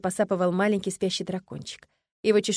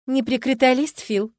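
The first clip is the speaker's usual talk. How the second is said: mock-scolding her husband, a bit higher and louder; reproachful; 5 semitones higher, 6 dB louder, slower than usual. Wife playfully scolding husband Fil for flattery, reproachful. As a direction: tease him with a reproach. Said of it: "укорила она мужа".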